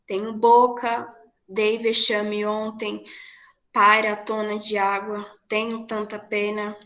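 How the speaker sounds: strong-weak beats, poem recited steadily; binary rhythm recitation. Shown as a demonstration. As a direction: mark each strong then weak syllable. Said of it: "Fica assim". (recitação em ritmo binário)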